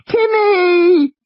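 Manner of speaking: put-on high, loud child's cry of fear; a girl screaming for her brother; terrified scream. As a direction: scream his name in terror. Lex screams as the T-rex crashes.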